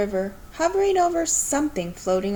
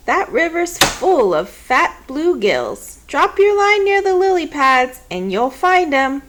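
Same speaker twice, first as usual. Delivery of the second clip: put-on louder, higher enthusiastic old woman; grandma sure of the bluegills; encouraging grandma; 6 semitones higher, 7 dB louder than usual. A narrator's reading. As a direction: pump the kid up about fishing.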